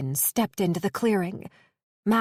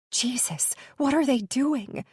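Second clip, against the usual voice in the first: panicked; 5 semitones higher than usual. Acted. Panicked woman.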